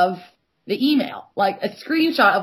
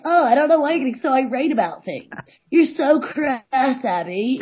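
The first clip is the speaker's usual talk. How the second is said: mocking impression; 3 semitones higher than usual. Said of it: "You're like".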